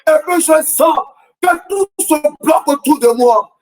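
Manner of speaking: rising preacher's cadence, questioning the crowd; impassioned sermon delivery; fervent preaching. Acted. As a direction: preach it, hammering the refrain. Preacher's rhetorical refrain, congregation answering.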